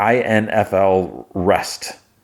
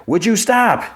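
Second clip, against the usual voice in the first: much higher, jumpy yelp of fright; jolted by a sudden scream; startled shriek. Retold or imitated. Scared by Mayhem's scream.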